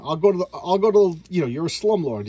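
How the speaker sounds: half-acted yell at the slumlord; retold yelling. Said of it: "So now he's yelling".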